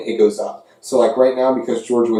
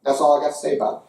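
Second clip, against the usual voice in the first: hint of a Southern hick accent ribbing rival fans; Southern redneck voice. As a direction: play a Southern SEC fan, Jim Bob Cooter, taunting UCF. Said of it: "Let's do the voice of the S E C".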